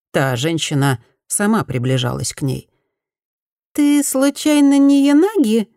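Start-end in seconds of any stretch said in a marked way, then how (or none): 3.7-5.7 higher and louder, small thin voice; thin little voice. Acted. Former bully timidly asks Fumi, thin little voice. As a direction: squeak it out timidly, high and light. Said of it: "тоненьким голоском спросила".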